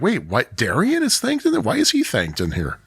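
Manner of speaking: acted-out puzzled double take, jumping high mid-quote; mock surprise. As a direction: replay your own baffled reaction, pitch leaping up. Acts out own past puzzled reaction.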